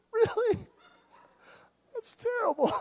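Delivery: high, teary mock sob; a hammed-up weepy voice, pitched high; mock crying. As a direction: pretend to well up over a sad story. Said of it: "I'm just a big crybaby".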